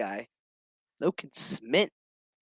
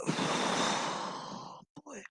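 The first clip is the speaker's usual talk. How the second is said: exasperated sigh; 10 semitones higher, 10 dB quieter than usual. Real, not acted. Sighing at the show.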